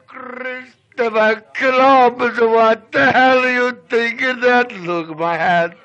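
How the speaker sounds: storyteller's exaggerated indignant outburst; mock outrage. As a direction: exclaim in hammed-up indignation over a squashed hat. Storyteller acts outrage over squashed hat.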